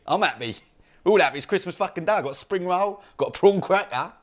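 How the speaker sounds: cheery. Retold or imitated.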